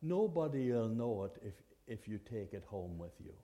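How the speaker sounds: a hint of a sly tempter talking you round; tempting voice. Inner voice tempting a finder to keep the purse, softly coaxing. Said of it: "a voice might say".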